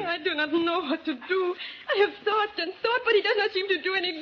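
a frightened daughter near tears, begging; tearful distress. Acted. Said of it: "if you become hysterical".

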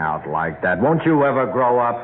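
irritated scolding; angry. Acted. Husband scolding wife for yelling, angry. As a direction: scold them for being childish. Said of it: "Don't be angry".

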